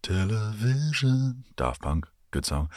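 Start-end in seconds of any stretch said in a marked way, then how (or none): 0.0-1.4 drawn-out American "Television" with a high pitch; American pronunciation. Shown as a demonstration. Asking American viewers how they say it, slow American take. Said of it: "Do you say television or television?".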